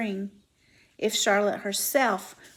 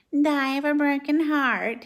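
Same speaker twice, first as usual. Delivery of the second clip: a hint of Wilbur, higher and louder; mocking mimicry; 5 semitones higher, 5 dB louder than usual. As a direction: parrot the pig's line scornfully. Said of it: "he mimicked".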